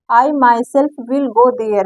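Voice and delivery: each word spaced out slowly for the class; slow dictation. Shown as a demonstration. Teacher dictating the example sentence to students, very slowly.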